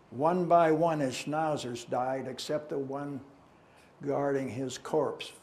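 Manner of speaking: strong attack on each stanza, easing off at the close; measured verse reading, pausing between phrases; poem recitation. Acted. Recites a modern poem aloud.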